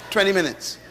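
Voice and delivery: said through a chuckle; laughing. Real, not acted. Preacher amused telling the congregation, laughing. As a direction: laugh it off in wonder.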